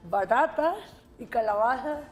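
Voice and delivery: measured read-aloud with deliberate pauses; vocalization exercise. Shown as a demonstration. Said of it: "Lee el de la letra A".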